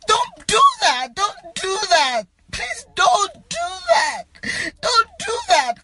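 high-pitched, tearful begging; distraught pleading. Real, not acted. Begging followers not to share the picture, distraught. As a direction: plead over and over, voice climbing.

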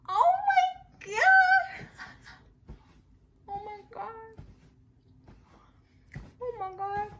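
high, drawn-out delight; ecstatic. Real, not acted. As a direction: savor it in bliss. Tasting the caramel.

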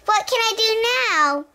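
high, bright squeal; excited child. Acted. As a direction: gush to the teacher. Child thrilled after ride.

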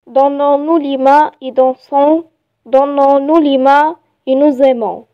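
measured, evenly phrased poem reading; poem recitation. Shown as a demonstration. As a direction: recite it line by line for learners. Reads poem aloud to learners. (إلقاء قصيدة بتأنٍّ)

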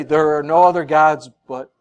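loud, solemn scriptural decree, lightly voiced; voice of God. Preacher quotes God to expose false teaching, lightly voiced loud decree. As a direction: drop from pleading into weighty pronouncement.

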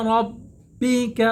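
রব্বিকা with a thick, full r; heavy r. Shown as a demonstration. Teacher shows the thick r of রব্বিকা. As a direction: round the r in রব্বিকা. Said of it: "রয়ের উচ্চারণ মোটা হবে".

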